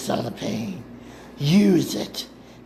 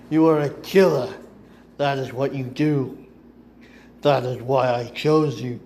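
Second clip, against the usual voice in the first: taunting. Acted. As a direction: needle her while she suffers. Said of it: "Dooku taunts her".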